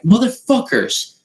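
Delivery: high, strained mock exasperation; exasperated. Host seeing the brawl on his lawn, exasperated. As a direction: disbelief at the chaos out front. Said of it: "and I'm like".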